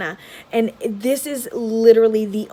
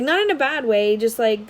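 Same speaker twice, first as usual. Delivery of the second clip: usual speaking voice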